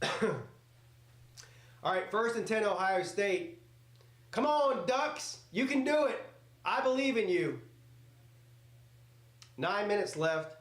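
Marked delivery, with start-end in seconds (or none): 4.3-7.6 higher-pitched pleading cheer; root hard for the comeback; cheering Ducks on. Real, not acted.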